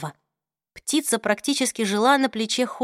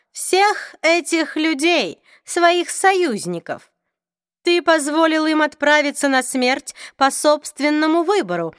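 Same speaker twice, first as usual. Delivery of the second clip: higher, slow, cool vampire; drawn-out, aloof vampire lord; cold vampire voice; 6 semitones higher, 3 dB louder than usual. Acted. Raphael accuses Luke.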